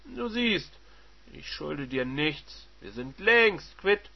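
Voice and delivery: slow, cool dismissal; cold husband. Acted. Husband dismissing his wife, slow and cold. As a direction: settle the score coldly.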